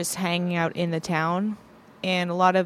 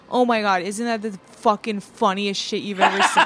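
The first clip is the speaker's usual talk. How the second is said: gushing and laughing. Retold or imitated. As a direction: gush through a laugh. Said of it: "and then I chime in and go".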